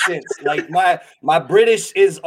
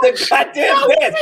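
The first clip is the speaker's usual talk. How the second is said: laughing shout. Real, not acted. Cracking up at the story, high laughing shout.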